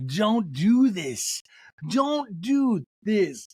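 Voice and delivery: lightly voiced Denise drawling slowly; slow knowing warning; Denise impression. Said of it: "Denise says".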